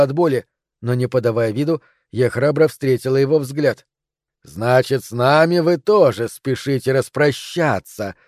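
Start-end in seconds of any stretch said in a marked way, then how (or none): 4.4-8.2 slow, lightly hissed snake voice; slow hypnotic serpent hiss. Acted. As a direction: draw it out like a coaxing serpent. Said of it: "прошипела змея".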